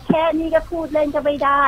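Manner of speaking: mock sneer. Mimicking a sneering commenter.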